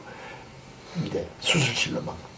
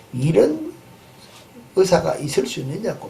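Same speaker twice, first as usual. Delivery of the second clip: mock angry outburst; 4 semitones higher than usual. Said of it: "막 화를 내니까는".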